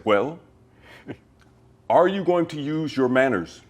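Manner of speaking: a hint of the prim gentleman. Actor stays in character toward Jamie, lightly haughty. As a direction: keep the offended dignity, demanding politely. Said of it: "I stayed in character".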